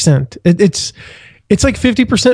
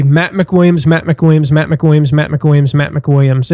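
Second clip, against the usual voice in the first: "Matt McWilliams" rattled off five times in a row; fast repetition. Shown as a demonstration. Guest repeating his own name five times fast on request. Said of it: "five times really quickly".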